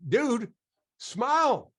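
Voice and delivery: high, loud playful nudge; urging smile. Retold or imitated. Speaker telling the stiff dentist to smile, loud playful nudge. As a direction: call out to loosen him up.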